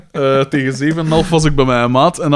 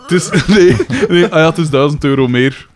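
laughing mock quote; 3 dB louder than usual. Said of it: "en die zeggen van".

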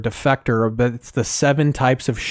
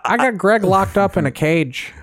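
Bryant Gumbel impression; 6 semitones higher than usual. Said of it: "a Bryant Gumbel impression".

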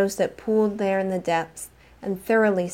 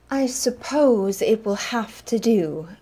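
diffident sniff; 2 semitones higher, slower than usual. Acted. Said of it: "Vera said with a diffident sniff".

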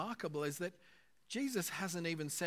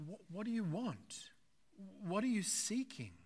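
higher, gently searching questions; inviting question; 5 semitones higher than usual. Retold or imitated. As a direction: invite them to consider, with pauses between questions. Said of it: "It's an invitation".

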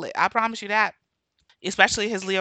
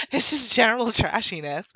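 higher, through a laugh; amused repeat; 4 semitones higher than usual. Real, not acted. Summing up the behavior, laughing and amused.

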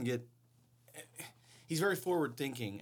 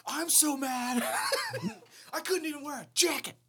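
high whiny mocking voice; squeaky laughing mockery; mocking impression; 4 dB louder than usual. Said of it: "he saw it".

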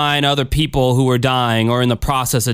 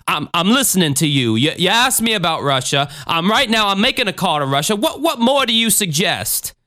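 lightly voiced defensive preacher; stammering reassurance rising into a challenge; Jim Jones; 5 semitones higher than usual. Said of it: "a recorded exchange between Christine and Jim Jones".

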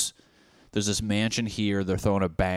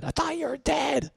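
very high, squealed mock astonishment; shocked shriek. Friends seeing him back from the dead, shocked shriek.

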